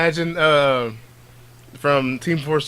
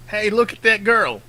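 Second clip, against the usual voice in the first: mocking boy; 7 semitones higher than usual. Voicing mocking boys.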